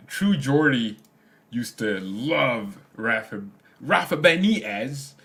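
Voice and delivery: a horrible attempt at a Geordie accent; bad British accent. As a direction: ham up a Newcastle accent badly. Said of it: "that's a horrible British accent".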